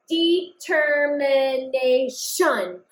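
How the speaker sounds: Determination said slowly, syllable by syllable; slow sounding out. Shown as a demonstration. Teacher checks the spelling by saying it slowly. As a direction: stretch the whole word out slowly. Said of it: "I'm just writing the sounds that I hear".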